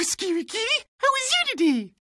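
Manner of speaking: usual speaking voice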